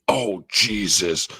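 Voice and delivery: half-hearted Peacemaker imitation; mock exasperation. Reviewer mimics the line he finds cringe, mock exasperated.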